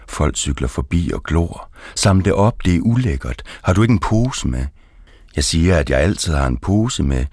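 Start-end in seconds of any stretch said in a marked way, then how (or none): 2.0-4.7 mock shouted order. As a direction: voice lifted higher in a scolding call. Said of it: "og råber". (hævet, skældende råb)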